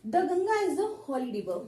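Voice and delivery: slow, careful read with "The" as short "द"; slow model sentence. Shown as a demonstration. Teacher slowly reads the example sentence to students, careful and drawn out. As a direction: spell out each word slowly for the class. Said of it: "जैसे अगर हम बात करें".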